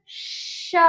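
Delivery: श as a pure breathy hiss, no voice; just air through the teeth for श; voiceless sha. Shown as a demonstration. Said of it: "देखिए आप बोलिए हाथ रखकर". (श को बिना आवाज़ के फुसफुसाकर)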